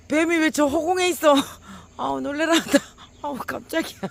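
high, loud startled exclamations; shaken cries. Real, not acted. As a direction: still rattled, calling out in disbelief. Still reeling from snake.

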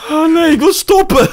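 high nervous laugh; laughing through real fright; scared laughing. Real, not acted. Scared after monster appears.

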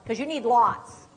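ordinary delivery

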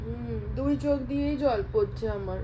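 soft mock-tearful voice for a toddler; a hammed-up hurt mother, quiet and whiny; pretend crying. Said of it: "আমি কিন্তু কাঁদছি".

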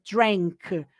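put-on drank with an open E vowel sound, not drunk; clear drank. Shown as a demonstration. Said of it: "que a pronúncia é drank, com E mesmo".

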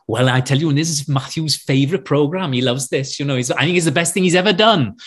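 chatty Welsh accent, lightly voiced; Welsh mum. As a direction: imitate a proud Welsh mother nattering. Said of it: "his mum is so wonderful".

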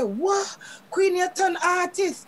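surprised. Retold or imitated. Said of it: "Everybody I say".

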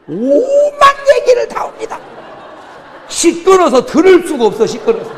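high, loud laughing send-up of chatter; laughing mock chatter. Preacher mocking Gyeongsang men who chatter with bar women, laughing loud and high. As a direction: cackle it out, mocking the gossiping men.

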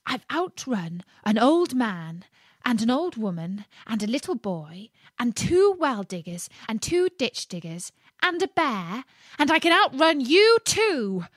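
high, bragging little voice; boastful gingerbread man. Acted. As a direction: gloat as the cocky cookie.

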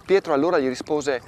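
measured liturgical reading of scripture; Gospel reading. Acted. Priest reading Matthew to listeners, solemn. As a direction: read the Gospel aloud to the faithful. Reads Gospel passage aloud.

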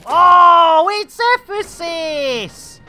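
high, loud delighted cry; excited. Real, not acted. Gamer spotting his wingman, excited cry.

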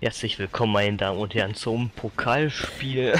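slow stadium announcer welcome; mock sports commentary. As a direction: greet the crowd like a match announcer. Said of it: "so kommentieren wie ein Fußballspiel".

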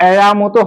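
আয়া pronounced in two syllables, "e-ya"; "ai" said as "eya". Shown as a demonstration. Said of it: "উচ্চারণটা হয়".

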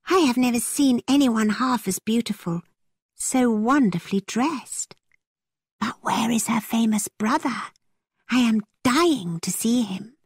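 gushing excitement. A narrator's reading. Isabella admires a young lady to her friend, gushing. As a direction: gush with eager curiosity. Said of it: "cried Isabella".

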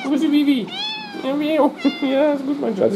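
high cooing pet voice. Real, not acted. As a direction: scold the cat sweetly up high. Cooing to cat.

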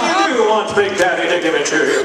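newscaster voice off duty. Acted. Newscaster confirming with a partner, lightly mocked news rhythm. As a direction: answer it like a hint of a reporter signing off. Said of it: "they drive home from the station like that".

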